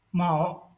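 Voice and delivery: "mao" held on a flat tone; first tone. Shown as a demonstration. Teacher demonstrates the first syllable, "mao" in flat first tone. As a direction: keep "mao" level. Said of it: "given tone is first tone".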